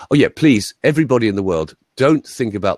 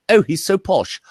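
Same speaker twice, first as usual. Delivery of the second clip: mock disapproval; 11 semitones higher, slower than usual. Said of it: "they think".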